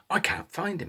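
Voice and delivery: breathy whispered report. Acted. Wolf pup whispering he failed to find brother. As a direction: whisper it, unvoiced and small.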